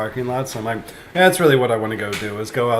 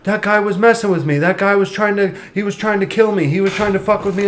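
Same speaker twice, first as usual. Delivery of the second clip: higher-pitched mock protest; changed demeanor; 8 semitones higher than usual. Caught troublemaker blaming the other guy to the store worker, high protest. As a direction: imitate a troublemaker suddenly pleading his case. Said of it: "his whole demeanor just changes".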